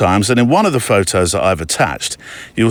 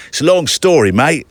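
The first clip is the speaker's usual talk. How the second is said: higher-pitched, lightly imitated London accent; 5 semitones higher than usual. London fiddle player explaining himself, light London accent. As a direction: quote him in a chummy London accent. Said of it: "a very London accent".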